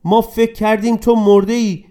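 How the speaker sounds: tearful relief. Acted. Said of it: "گریه کنان پسرش را در آغوش گرفت".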